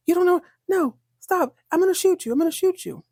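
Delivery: high-pitched mock panic; panicked threat. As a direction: imitate someone panicking while making a threat. Acted threat at gunpoint.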